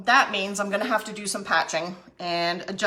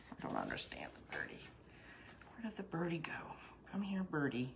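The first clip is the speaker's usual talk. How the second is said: coaxing a wild bird; 18 dB quieter, faster than usual. Pretend. Whispering to the bird.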